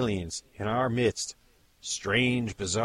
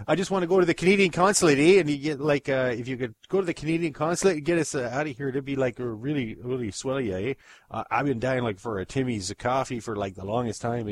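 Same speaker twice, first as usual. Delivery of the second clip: Canadian dude pleading for help; kidnapped Canadian begging in a Canadian accent; Canadian alien; 3 semitones higher, 3 dB louder than usual. Acted.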